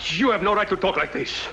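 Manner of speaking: firm, offended objection; indignant protest. Acted. Colonel objecting to Barrero's accusation, indignant. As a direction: push back hard at the insult.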